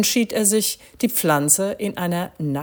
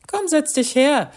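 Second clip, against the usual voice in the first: higher, louder call to come over; urging invitation; 11 semitones higher, 5 dB louder than usual. A narrator's reading. Andreas asks his old friend to sit down, urging. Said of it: "forderte dieser seinen".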